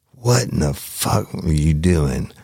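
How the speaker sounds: slow, deliberate retold reprimand; chewing out. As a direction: imitate a boss dressing you down. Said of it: "Mister Kearney chewed my ass".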